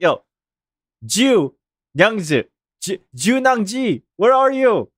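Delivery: "Junyangzi" broken up as plain English "Joo Nang-jee"; casual English sounds on "Ju Nangji"; anglicized pronunciation. Shown as a demonstration. Talking to an English person, easy anglicized "Ju Nangji". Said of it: "if I'm talking to an English person".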